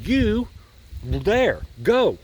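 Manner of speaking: mock-stern order, clipped into pieces; stern command. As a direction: play the stern flagman barking orders. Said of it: "he's very sternly saying".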